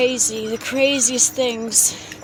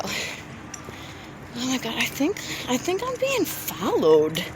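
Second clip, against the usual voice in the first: whisper; 6 dB quieter, slower than usual. Real, not acted. Whispered aside about being followed.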